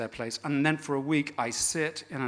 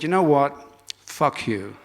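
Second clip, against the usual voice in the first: meltdown outburst; 6 dB louder than usual. Retold or imitated. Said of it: "had a meltdown".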